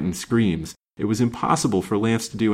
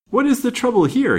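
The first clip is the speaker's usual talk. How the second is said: high, louder friendly question; genial, friendly; 5 dB louder than usual. A narrator's reading. Newcomer to stranded party, genial and friendly. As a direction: ask it genially, pitched right up. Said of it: "in a genial, friendly voice".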